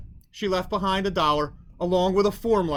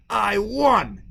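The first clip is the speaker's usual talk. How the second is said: loud victorious shout, pitched up; triumphant yell; 4 semitones higher, 6 dB louder than usual. A narrator's reading. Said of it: "he yelled".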